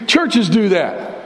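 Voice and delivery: churches hit slow and weighty; stress on churches. Shown as a demonstration. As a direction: lean hard on churches. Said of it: "Let me be really honest with you".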